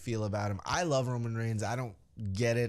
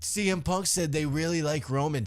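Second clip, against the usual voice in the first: mocking parrot; 4 semitones higher than usual. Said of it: "all these fucking people went".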